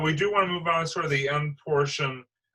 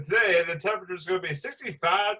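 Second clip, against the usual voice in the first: higher, hammed-up weather-report voice; mock smooth-jazz radio forecast; smooth radio weatherman; 3 semitones higher than usual. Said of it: "Smooth, oh boy, please don't".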